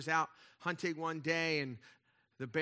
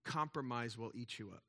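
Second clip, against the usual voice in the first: punchline delivery; 5 semitones lower, 5 dB quieter than usual. Shown as a demonstration. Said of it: "ready for the punchline".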